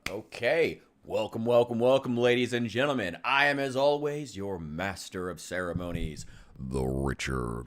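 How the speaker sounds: loud, high showman greeting; warm welcoming host. Acted. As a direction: belt it out like a game show host. Streamer's hammed-up host opening.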